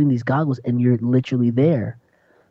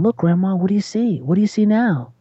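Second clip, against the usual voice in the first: voicing the grandson; 6 semitones higher than usual. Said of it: "you hear them talking".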